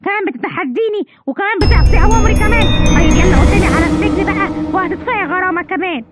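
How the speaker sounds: an officer angrily orders the mother off to jail; angry officer. Acted. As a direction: bark the arrest order. Officer loses temper.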